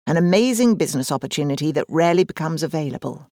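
quick, gushing sales pitch with "amazing" stressed; mock estate agent hype, fast; salesy estate agent. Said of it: "That's what the agent called it".

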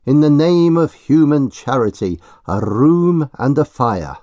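loud, high pleading cry. Acted. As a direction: beg loudly for a room and fire. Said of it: "he cries".

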